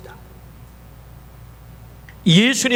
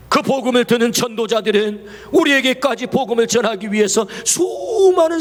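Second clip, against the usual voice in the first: preaching at full force; 4 semitones higher than usual. Real, not acted. Preaching rising to a climax.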